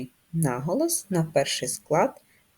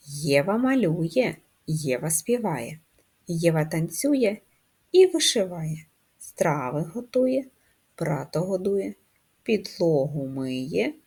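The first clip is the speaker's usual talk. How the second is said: put-on poem read to children. Teacher reads a poem aloud to the class, sing-song. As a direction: read each line like a nursery rhyme.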